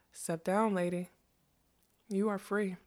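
hushed, gentle invitation; soft. A narrator's reading. Magician freeing the unicorn from her cage, softly. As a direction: say it softly, with space between phrases. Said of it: "said softly".

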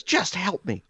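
put-on high pleading old lady voice; old woman pleading. The fallen woman begging him, high pleading voice. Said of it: "And she goes".

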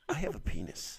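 hushed, voiceless whisper; close-up whisper. Shown as a demonstration. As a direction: lean in and whisper it like a secret. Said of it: "lean in real close like this".

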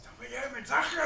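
high whiny mock customer complaint; mock caller. Retelling the dumb caller to a friend, mock whine. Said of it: "el imbécil dice".

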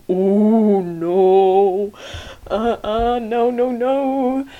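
loud, alarmed repeated no; horrified no. Retold or imitated. Reacting to the venom needle in a loud, alarmed voice.

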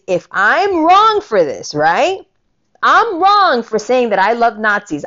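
heated retold rant, slowing to a low sneer; rising indignation that sinks into disgust. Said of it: "I told you I'm angry today".

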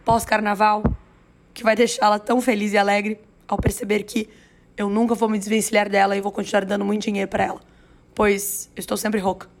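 hoarse, tired voice. Real, not acted. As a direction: talk through a hoarse throat. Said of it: "Estou rouca há muitos dias".

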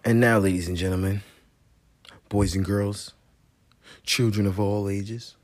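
lightly voiced ringmaster; announcer voice. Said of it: "commercial voice".

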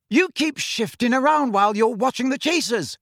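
high-pitched telling-off; scolding call. A narrator's reading. Captain to keeper who keeps shifting around, high scolding. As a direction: call out a correction, exasperated. Angelina scolding Ron from afar.

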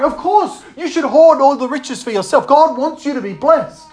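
insistent false encouragement; lightly acted tempter. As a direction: justify the greed as if obvious. Tempter justifying greed, acted.

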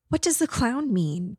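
put-on high, innocent child's question; small boy's high puzzled voice; little boy. A narrator's reading. Ghost boy asks about clown's threat, high and childlike.

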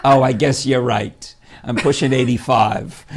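lightly voiced old lady, slow; a hint of an elderly mother; imitating Mom. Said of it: "I said".

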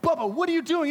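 high, loud disbelieving question; exasperated shout. Retold or imitated. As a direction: act out a stunned leader yelling. Leader confronts half-naked kid.

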